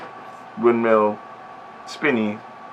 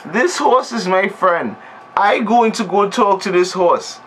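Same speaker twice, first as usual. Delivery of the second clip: naive inner voice; 5 semitones higher than usual. Retold or imitated. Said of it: "think to herself".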